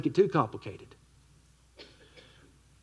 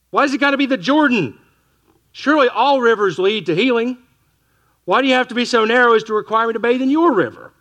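indignant Naaman; 6 semitones higher than usual. Retold or imitated. Naaman snapping back at the prophet's servant, indignant and raised. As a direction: play the offended captain demanding respect. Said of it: "He's angry".

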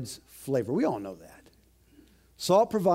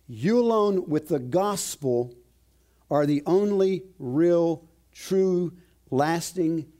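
raised, slow preaching voice; fiery preaching; 3 semitones higher than usual. Acted. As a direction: preach it with rising conviction. Preaching climax.

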